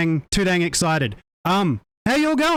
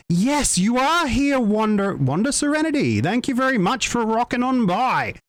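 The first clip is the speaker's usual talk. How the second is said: raised pitch, enthusiastic greeting; excited welcome; 4 semitones higher than usual. Real, not acted. Streamer welcoming a viewer who dropped by, excited. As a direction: welcome a viewer in a high, pleased voice.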